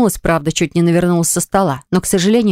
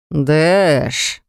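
drawn-out threat. A narrator's reading. Mage warns the lord, drawn-out threat. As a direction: let the name hang like a threat. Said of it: "протянул беловолосый с угрозой в голосе".

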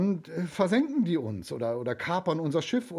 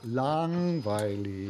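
bored; 4 semitones lower, much slower than usual. Acted. Boy bored by cooking.

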